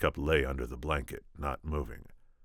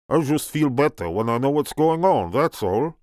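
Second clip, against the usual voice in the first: big booming French giant voice; loud, booming French-accented giant; rumbling French accent of a gentle giant; 10 semitones higher, 9 dB louder than usual. Acted. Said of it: "booming French accent of Andre the Giant".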